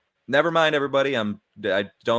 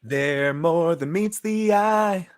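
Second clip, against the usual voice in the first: movie trailer voice; 7 semitones higher, 3 dB louder, much slower than usual. Pretend. Transformers movie trailer joke.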